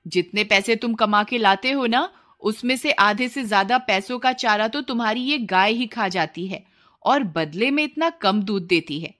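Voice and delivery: lightly voiced scolding wife; nagging wife. Wife scolds husband about the cow, lightly nagging. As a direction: needle him about the useless cow.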